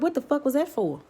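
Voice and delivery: high-pitched disbelief; high, baffled indignation; retold outrage. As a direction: demand it, stunned and indignant. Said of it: "I'm like".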